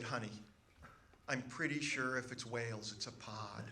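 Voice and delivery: condescending, with patience worn thin; forced patience. Retold or imitated. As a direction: correct him like a five-year-old, gently superior. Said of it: "that tone of forced patience and condescension".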